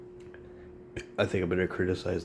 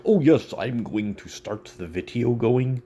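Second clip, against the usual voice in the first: mock a proper sober self; prim sober self; 4 dB louder than usual. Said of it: "when I'm sober, it's like".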